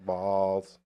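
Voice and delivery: lightly done servile robot voice. Retold or imitated. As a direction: beg like a cowering robot servant. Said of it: "My robot voice".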